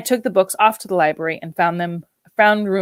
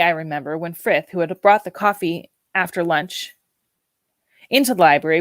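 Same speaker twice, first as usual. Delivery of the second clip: usual speaking voice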